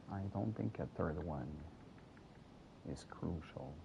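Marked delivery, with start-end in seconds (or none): 2.9-3.7 whisper. Real, not acted. Whispered aside while gaming.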